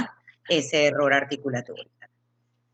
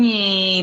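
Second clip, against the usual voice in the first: plane sound; 3 semitones higher, 6 dB louder than usual. Shown as a demonstration. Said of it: "el avión".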